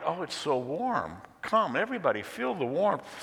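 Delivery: high, delighted calling out; delighted invitation. Acted. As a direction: call everyone eagerly to the fire. Woman delights, calls others over.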